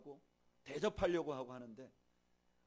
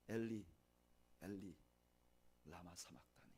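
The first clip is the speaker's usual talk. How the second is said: anguished cry; 6 semitones lower, 11 dB quieter than usual. Retold or imitated. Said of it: "하늘을 향해서 이렇게 부르짖습니다".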